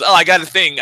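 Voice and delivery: mild flustered excuse. Retold or imitated. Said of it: "frustrated and says".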